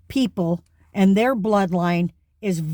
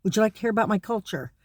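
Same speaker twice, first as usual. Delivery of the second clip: higher, affronted "hold up, what did you call me"; indignant challenge; 3 semitones higher, faster than usual. Pretend. Imagined white person confronting a name-caller, affronted and fast. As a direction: pull yourself up, offended, then rush the offer quickly. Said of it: "standing up and saying".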